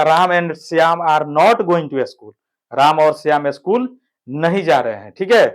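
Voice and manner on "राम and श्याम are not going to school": each word spaced out slowly for writing down; slow dictation. Shown as a demonstration. Teacher dictating the sentence slowly to the class. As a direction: dictate it slowly so students can copy. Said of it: "तो क्या हो जाएगा".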